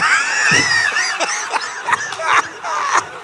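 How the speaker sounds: very high falling squeal; high-pitched wail. Acted. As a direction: let out a long high falling shriek. Reacting to a bad feeling.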